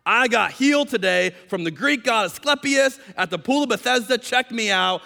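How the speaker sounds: high, exuberant showing off; mock boasting. Imagined healed man shows off at the pool, mock boasting. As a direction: crow it out for all to hear.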